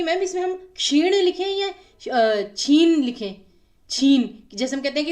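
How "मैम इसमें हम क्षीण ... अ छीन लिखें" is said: imitating a student. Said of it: "students कहेंगे कि".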